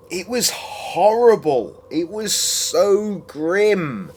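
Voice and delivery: high, loud, dragged out; exaggerated disgust. Real, not acted. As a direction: wail how grim it was. Drawn-out exaggerated complaint.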